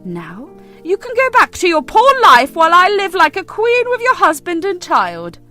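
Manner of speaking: gloating. Acted. Mistress boasts about stealing husband and child, gloating. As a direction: rub her nose in it.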